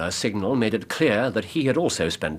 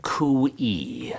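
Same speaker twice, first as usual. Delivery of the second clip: whispered call; 3 semitones higher than usual. Shown as a demonstration. Holmes quietly voices the signal.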